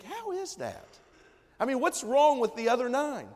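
a preacher mocking our outrage at the ungrateful, high and indignant; indignant disbelief. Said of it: "And you think".

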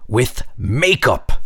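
put-on child voice. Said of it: "said Nera".

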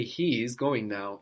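"He" drawn out and weighted; slow line leaning hard on "He"; stress on HE. Shown as a demonstration. Teacher prompting student for emphatic he, stress on "He". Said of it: "emphasizing the word for he".

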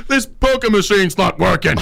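laughing mock complaint; complaining punter. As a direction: play a grumbling punter through laughter. Acted punter interrupting the band.

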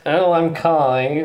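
slow nasal whine; nasal Kai voice. Retold or imitated. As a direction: drag it out, whiny and nasal. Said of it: "that's my nasally impression of you".

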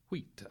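"wheat" for white, a long ee; Middle English white. Shown as a demonstration. Professor voicing Middle English white as wheat. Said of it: "In Middle English".

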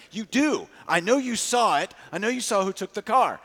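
John insisting the desk worker saw the car taken, angry; passionate and angry. Retold or imitated. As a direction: push back hard, you know they saw. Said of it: "He is passionate and angry".

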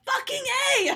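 loud, high frustrated outburst; exasperated yell. Retold or imitated. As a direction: blurt it out in exasperation. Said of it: "And I'm like".

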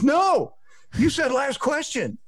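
whiny high-pitched imitation; mocking high whine. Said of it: "He goes".

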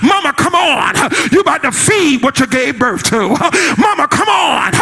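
put-on a girl running in with big news, calling out; excited calling. Miriam runs to call her mother.

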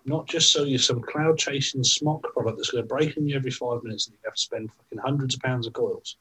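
heated swearing rant; swearing tirade. Real, not acted. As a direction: rant at the bad shops. Rant against bad vape shops.

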